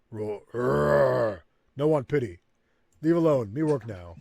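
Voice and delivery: a hint of a proud orc pushing pity away; gruff, short refusal; mild surly orc; lightly voiced orc.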